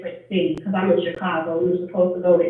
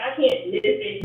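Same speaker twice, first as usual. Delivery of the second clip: high excited; 11 semitones higher than usual. Retold or imitated. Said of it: "I'm like".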